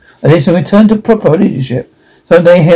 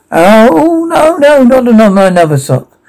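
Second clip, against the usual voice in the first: panicked cry; 7 semitones higher than usual. Acted. As the cat ruins another sock, panicked cry. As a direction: yelp in dismay as it happens again. Cat shredding his socks.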